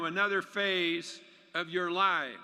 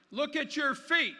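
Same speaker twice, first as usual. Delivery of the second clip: frog voice; 7 semitones higher than usual. Acted. Frog speaks to fisherman.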